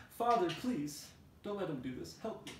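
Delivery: put-on very high, desperate child's plea; pleading Pinocchio. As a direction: beg father not to let him go. Pinocchio begging his father.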